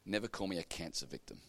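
quiet, gentle plea; softly plead, gracious and firm. Retold or imitated. Woman quietly correcting a rude boy, gently. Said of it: "She was so gracious".

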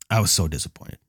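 whispered letdown; disappointed whisper. Real, not acted. Telling viewers about missing the shuttle, whispering. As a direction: breathe out the disappointment.

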